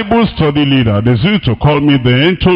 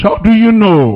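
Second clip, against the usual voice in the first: incredulous challenge; 2 semitones higher than usual. Acted. Preacher mockingly challenges the church comparer.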